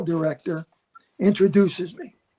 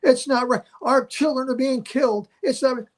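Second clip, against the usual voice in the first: mock debate shouting; 6 semitones higher than usual. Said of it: "they're screaming at each other".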